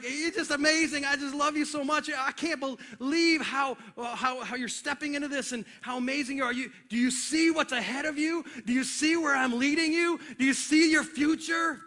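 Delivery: keyed-up, admiring praise; excited encouragement. Acted. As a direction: urge them on with excited affection. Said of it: "I get a little excited".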